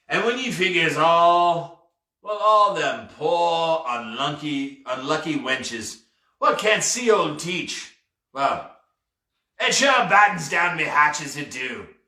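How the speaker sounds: lightly voiced pirate, lingering on his regrets; regretful pirate captain. Pirate pitying the wenches who can't see him, regretful. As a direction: stretch the words with self-pity.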